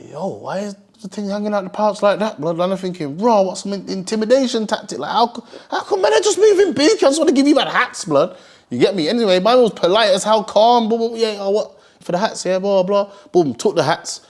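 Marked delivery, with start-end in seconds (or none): 0.1-8.4 high, laughing disbelief; baffled, laughing. Retold or imitated. Eyeing the open pouch at the car window, laughing and baffled. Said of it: "Man, I'm just looking like".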